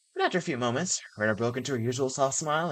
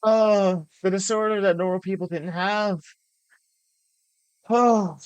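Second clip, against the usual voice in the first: raised, loud and delighted; thrilled gushing; 7 semitones higher, 7 dB louder, slower than usual. Real, not acted. Player savouring the famous line, thrilled gushing. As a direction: gush over it in high excitement.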